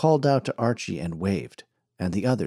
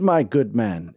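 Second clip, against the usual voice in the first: pompous snake-oil salesman; 3 dB louder, slower than usual. Acted. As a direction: sell the crowd a tall tale like a showman.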